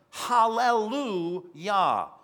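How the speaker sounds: roaring shout. Acted. Preacher voicing the multitude in heaven, loud slow shout. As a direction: proclaim it slowly like a heavenly shout. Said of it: "They're in heaven roaring and shouting".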